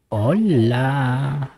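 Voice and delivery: squeaky mouse voice; helium voice. Shown as a demonstration. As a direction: chipmunk filter voice. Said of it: "voz de ratita".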